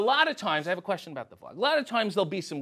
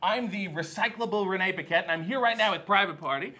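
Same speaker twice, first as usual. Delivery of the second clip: interviewer voice. Pretend. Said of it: "cut a promo on the fly".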